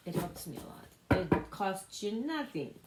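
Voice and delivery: put-on playful touch of a Russian accent. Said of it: "speaking with a Russian accent".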